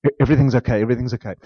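calming down. Retold or imitated. An infant soothing itself once mom returns, quiet. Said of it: "we quiet down".

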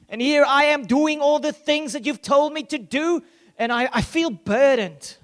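a hint of a bitter, burdened son; older son's complaint. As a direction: vent like an overlooked brother. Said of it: "But the older brother".

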